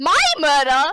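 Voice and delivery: loud, fierce, way too aggressive outburst. Shouting an in-character line at the table: way too aggressive. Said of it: "That was way too aggressive".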